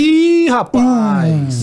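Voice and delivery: loud, high drawn-out exclamation; excited surprise. Real, not acted. Co-host hears of free game codes, excited whoop. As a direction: whoop at the good news, stretching it out.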